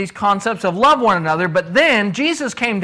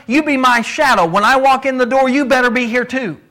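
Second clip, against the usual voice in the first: firm, slightly raised and pressing; firm insistence; 4 semitones higher than usual. Shown as a demonstration. Boss firmly warning a late employee, insistent. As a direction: lay down the rule firmly. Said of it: "now I'm telling you so firmly".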